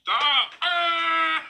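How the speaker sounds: shrieking through laughter; laughing shriek. Real, not acted. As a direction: yelp between giggles.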